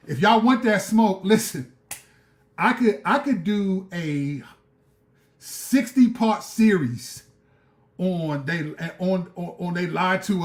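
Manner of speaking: daring viewers to want that smoke, loud; challenge. Real, not acted. Challenging the audience.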